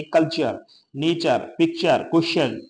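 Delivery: "कल्चर", "नेचर", "पिक्चर", "क्वेश्चन" with a ch sound for T. Shown as a demonstration. Teacher giving examples of T turning to ch in "कल्चर". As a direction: demonstrate ch in each word, "नेचर", "पिक्चर". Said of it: "उसका उच्चारण चे होता है".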